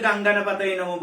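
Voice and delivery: গাঙ্গানা with NG run into the next word; book-copied wrong pronunciation. Shown as a demonstration. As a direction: say গাঙ্গানা with NG where M belongs. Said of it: "আগে বই দেখে টুকলে".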